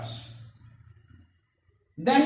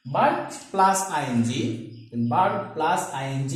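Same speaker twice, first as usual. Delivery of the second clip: slow spelled-out breakdown; 4 semitones lower, much slower than usual. Shown as a demonstration. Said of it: "the word barking".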